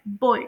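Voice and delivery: बॉय with one gliding oy vowel; correct pronunciation. Shown as a demonstration. Teacher models the word for students, correct pronunciation. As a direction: say बॉय as a single diphthong. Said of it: "इसे pronounce किया जाता है".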